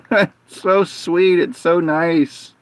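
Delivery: slow, high-pitched fond gushing; touched, near crying. Real, not acted. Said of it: "trying not to cry about it".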